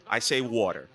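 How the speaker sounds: water with a rounded aw vowel; I say water, Northeast aw; New Jersey water. Shown as a demonstration. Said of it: "the way I pronounce".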